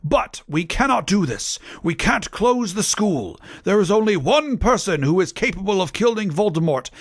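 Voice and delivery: grand, high-pitched theatrical declaration; angry Dumbledore. A narrator's reading. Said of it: "Dumbledore said angrily".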